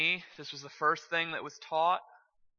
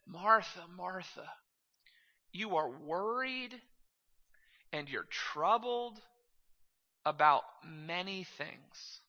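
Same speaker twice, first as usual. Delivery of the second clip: Jesus gently admonishing Martha; 2 semitones higher, slower than usual. Retold or imitated. Preacher quoting Jesus to busy Martha, slow and measured. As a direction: draw out each phrase with long pauses.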